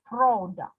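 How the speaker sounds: "product" with a strong first syllable, falling after; stress on first syllable. Shown as a demonstration. Teacher repeating the example word, first syllable stressed. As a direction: lean on PRO in "product". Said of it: "pro is stressed".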